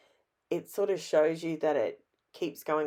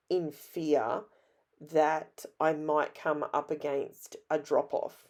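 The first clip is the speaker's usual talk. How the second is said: ordinary talk, nothing marked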